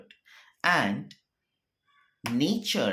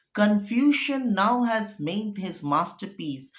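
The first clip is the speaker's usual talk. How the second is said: raised declaiming voice, slowing, then fading to a breath; Shakespeare recitation; 5 semitones higher, 4 dB louder than usual. Acted. Teacher reading Macduff's lament to the class, dramatic. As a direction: mourn the sacrilege of the murder.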